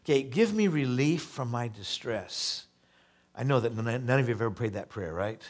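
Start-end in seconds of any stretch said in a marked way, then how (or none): 0.2-2.6 slow, earnest scripture reading; psalm reading. Acted. Pastor reading a plea to the congregation, slow and earnest. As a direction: lean into the plea.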